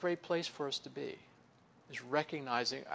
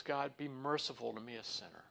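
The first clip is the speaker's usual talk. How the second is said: softer, falling prayer of a sinner; quiet humble plea; 3 semitones lower, 7 dB quieter than usual. Retold or imitated. Tax collector begging God's mercy, softly. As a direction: ask for mercy quietly, head bowed.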